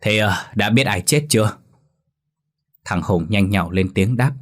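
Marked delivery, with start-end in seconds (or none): 0.0-1.6 forced calm. Acted. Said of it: "cố dùng giọng bình tĩnh nhất có thể".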